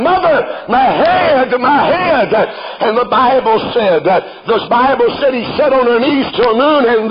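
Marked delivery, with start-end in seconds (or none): 0.0-2.5 put-on a boy's pained cry, drawn out slowly; mock crying child. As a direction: cry out like a sick child, unhurried. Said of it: "And he's crying".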